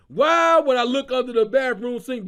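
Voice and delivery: loud incredulous question; incredulous shout. Real, not acted. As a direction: shout it in mock outrage. Incredulous rant at the joke.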